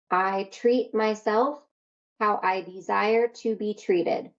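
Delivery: slow, sincere repeated affirmation. Shown as a demonstration. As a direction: say it slowly like a vow. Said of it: "this is your promise to yourself".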